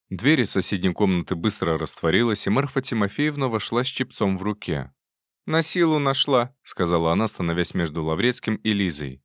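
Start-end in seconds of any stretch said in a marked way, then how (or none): 5.5-6.6 put-on higher and louder, a chattering old woman; loud triumphant old aunt; bustling old aunt. A narrator's reading. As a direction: burst in relieved, old-lady voice. Old aunt returns with cap.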